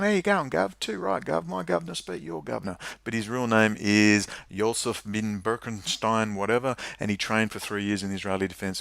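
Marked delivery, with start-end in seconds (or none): 0.0-2.8 mocking British accent, pitched higher. Parodying special forces agents, mock higher British accent. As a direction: lampoon a chummy British bloke. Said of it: "probably with British accents".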